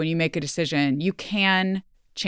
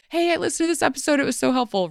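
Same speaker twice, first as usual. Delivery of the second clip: imitating a listener; 10 semitones higher, much faster than usual. Voicing a listener's grateful message.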